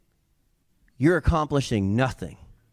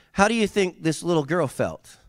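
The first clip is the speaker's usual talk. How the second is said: usual speaking voice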